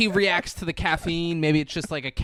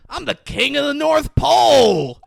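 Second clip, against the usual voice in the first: mock boast; 8 semitones higher, 5 dB louder than usual. Hobo boast retold.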